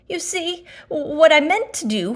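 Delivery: loud, high flustered call; falling explanation. Acted. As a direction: shout it while crashing down. Pooh explaining while falling.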